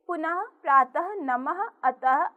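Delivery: each final visarga sounded as h; visarga endings like h. Shown as a demonstration. Teacher gives children visarga examples, each ending in h. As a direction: end each word on an audible h. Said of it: "इसका उच्चारण ह ध्वनि जैसा होता है".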